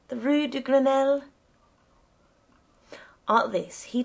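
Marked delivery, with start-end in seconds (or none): 0.1-1.2 higher-pitched insistence on the address; mildly exasperated call, pitched up; crying out. A narrator's reading. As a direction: spell out the street insistently. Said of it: "I cried again".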